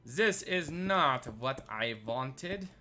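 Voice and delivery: slow, drawn-out, hammed-up displeasure; mock dramatic disapproval. Builder scolding his own bad block choice in slow mock disgust. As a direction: stretch every word like a fussy critic.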